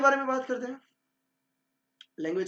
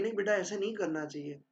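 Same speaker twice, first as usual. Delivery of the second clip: calm; 4 dB quieter than usual. Shown as a demonstration. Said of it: "शांति से बोली जाती".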